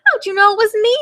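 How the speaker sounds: high, hammed-up turkey wail; mock wail. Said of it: "wailed Turkey".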